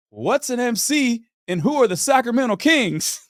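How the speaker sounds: high-pitched incredulous questions; hammed-up confusion; clueless bafflement. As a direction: ask in comic total ignorance. Retells clueless, astonished questions.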